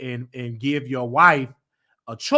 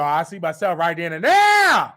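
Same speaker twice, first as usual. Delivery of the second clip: excited shout; 4 semitones higher, 5 dB louder than usual. Real, not acted. Excited joking.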